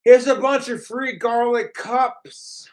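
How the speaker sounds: spoken aloud mocking version; mock troll line. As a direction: sneer it out as the troll.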